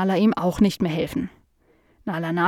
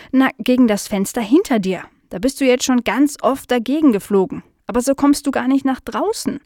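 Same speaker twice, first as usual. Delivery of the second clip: higher, animated dog voice; insistent explaining; 4 semitones higher than usual. Acted. Nala explaining the window to the fly, animated and insistent. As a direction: spell it out insistently.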